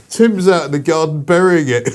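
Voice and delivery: laughing and half shouting the punchline; laughing, can barely get it out; laughing through it. Retold or imitated. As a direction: blurt it out while cracking up. Wendy's retold reply, laughing.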